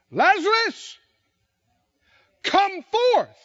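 high, loud commanding call into the tomb; loud cry. Acted. Jesus calling Lazarus out of the tomb, loud and commanding. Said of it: "he cried with a loud voice".

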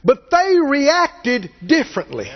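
usual speaking voice

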